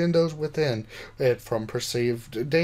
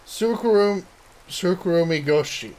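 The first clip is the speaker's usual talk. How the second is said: proud shout; 4 semitones higher than usual. Acted. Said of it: "I shouted proudly".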